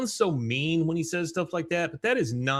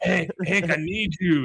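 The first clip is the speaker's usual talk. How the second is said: pleading; 5 semitones higher than usual. Retold or imitated. Enrique pleading.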